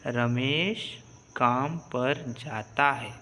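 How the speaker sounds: "रमेश काम पर जाता है" read slowly, word by word, like a teacher showing how; slow reading demo. Shown as a demonstration. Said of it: "पूरा हमारा sentence क्या हो जाएगा". (धीरे-धीरे शब्द-शब्द पढ़कर दिखाना)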